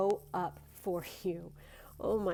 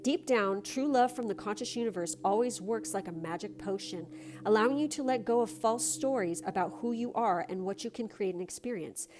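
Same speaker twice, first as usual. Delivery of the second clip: card reading; 3 semitones higher than usual. Acted. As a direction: read it like a gentle blessing. Reads a card's message.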